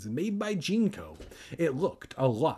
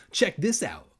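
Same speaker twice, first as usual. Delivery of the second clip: higher, excited show-off cry; 6 semitones higher, 3 dB louder than usual. A narrator's reading. Kermit shows Evan and Andy his glass case, crying out. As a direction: cry it out eagerly, pitched up. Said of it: "Kermit cried".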